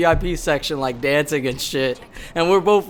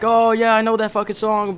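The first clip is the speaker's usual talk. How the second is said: excited recognition; 6 semitones higher, 3 dB louder than usual. Retold or imitated.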